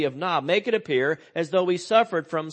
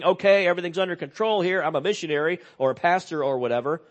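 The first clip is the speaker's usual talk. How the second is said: mock composure; 4 semitones higher, faster than usual. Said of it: "Instead of saying".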